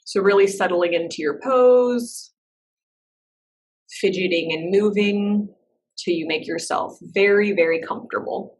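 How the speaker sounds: measured meditation-teacher voice with long pauses; guided meditation. Real, not acted. Teacher settling a class into breath and body, guided meditation. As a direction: guide them gently inward, leaving space between phrases.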